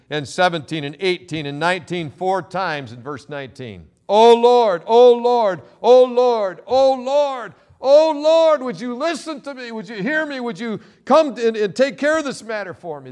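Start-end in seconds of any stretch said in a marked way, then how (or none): 4.1-13.1 much higher and louder, crying oh Lord over and over; passionate plea. Acted. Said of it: "There is passion in the voice of Daniel".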